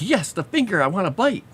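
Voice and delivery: high, eager pet voice; voicing the pet. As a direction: speak for the pet as if it's hungry for the finger. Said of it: "He's just like".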